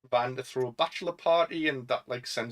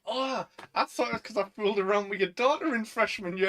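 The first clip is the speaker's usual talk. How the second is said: quoting Van; 8 semitones higher than usual. Retold or imitated. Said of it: "And he's like".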